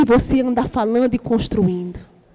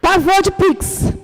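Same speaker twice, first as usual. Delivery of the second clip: mocking the women; 5 semitones higher than usual. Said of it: "Aí a mulherada".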